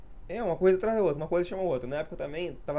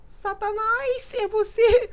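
very high, slow squeak, much louder on é você; squeaky little voice; 7 dB louder, much slower than usual. Retold or imitated. Joking with friends while gaming, in a squeaky voice. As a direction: stretch Satanás slowly and squeal the question. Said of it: "a gente falou de".

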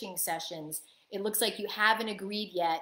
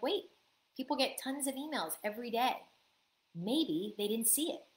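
reassuring; 3 semitones higher, 4 dB quieter than usual. Pretend. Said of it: "we wanna be like".

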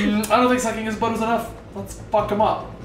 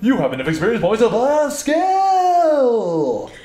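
booming announcer; 4 semitones higher, slower than usual. Pretend. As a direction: boom it like an announcer. Reading game prompt aloud.

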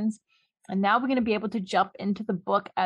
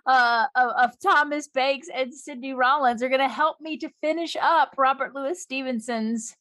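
usual speaking voice

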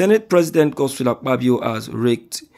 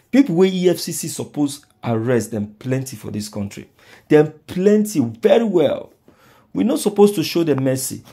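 raised, higher angry voice; heated rant; 4 semitones higher, 3 dB louder than usual. Real, not acted. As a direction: rant louder, pushing higher. Heated rant demanding arrests.

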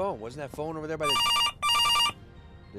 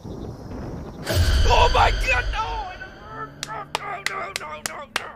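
high, loud panicked screaming no; terrified scream; 7 dB louder, much slower than usual. Real, not acted. Streamer jump-scared by the horror game, screaming in terror. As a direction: shriek it out in real fright.

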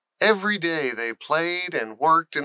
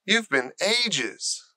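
slow, higher whine; complaining; 5 semitones higher, slower than usual. Acted. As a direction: drag it out as a grumble. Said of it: "complained Colin".

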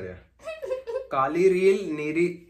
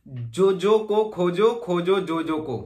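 slow demo; slower than usual. Shown as a demonstration. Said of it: "चल, ठीक है।".

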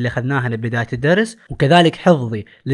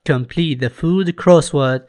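very slow, clear English instruction; slow instruction reading; much slower than usual. Shown as a demonstration. Teacher reads the workbook instruction slowly to the class. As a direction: read the rubric out slowly.

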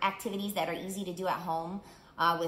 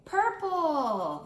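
high, loud shout of the color; 8 semitones higher, 6 dB louder than usual. Acted. All three mice shouting the new color, loud and high. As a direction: shout it out together, triumphant. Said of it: "they all shouted".

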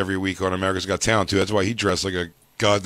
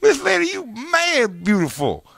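high, leering mock host; mock Steve Harvey. Mocking Steve complimenting Miss India, high and leering. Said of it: "voicing Steve flirting".

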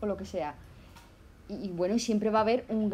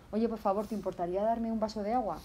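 polite request. Shown as a demonstration. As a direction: ask politely and gently for the water. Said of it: "tendrías que ser un poquito más correcto".

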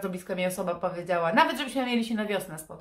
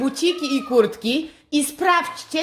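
slow, loud sing-song rhyme reading; 7 semitones higher, 8 dB louder, slower than usual. Acted. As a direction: read the riddle like a children's poem. Reading the advent riddle rhyme.

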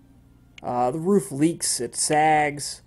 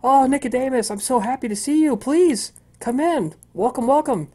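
high, bright-toned sing-song welcome, louder; chipper cheerful woman; 10 semitones higher, 4 dB louder than usual. Acted. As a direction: gush over a guest like a delighted hostess. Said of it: "happy, cheerful, chipper way".

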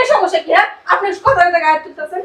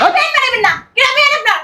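heated, higher-pitched rebuke; angry interruption; 4 semitones higher than usual. Acted. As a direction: cut the in-law off indignantly. Cuts off the in-law in quarrel. (রাগী গলায় ধমক)

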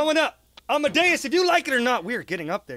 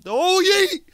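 high, loud whoop; drawn-out high yell; yelled launch cry; 9 semitones higher, 5 dB louder than usual. Real, not acted. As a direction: let the charge burst out loud. Charged-up game move, yelled.

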